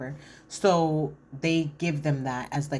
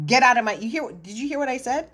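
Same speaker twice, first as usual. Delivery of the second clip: high, louder mock outburst; man ranting about foreign men, imitated heat; retold heated rant; 8 semitones higher, 3 dB louder than usual. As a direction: play his furious yelling back. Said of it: "I'm heated".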